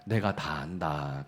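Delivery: low, soft and very slow; gentle divine voice. Acted. The Holy Spirit gently comforting the weeping believer, low, soft and slow. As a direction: say it softly and slowly, like a comforting father.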